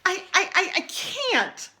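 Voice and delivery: high, loud stuttering start; stammering. Acted. Rainbow Fish stammering a refusal to the octopus. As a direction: stumble over the words. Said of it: "started to say".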